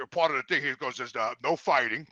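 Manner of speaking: low, quiet, mumbled salesman voice; imitating the salesman. Gym clerk listing prices to Jimmy, low and mumbling. Clerk states the fighting rule.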